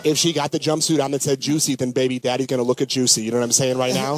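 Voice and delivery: a lightly voiced, fast-talking smooth movie guy; Vince Vaughn impression. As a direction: rattle it off like a cocky smooth talker. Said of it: "What would Vince Vaughn say?".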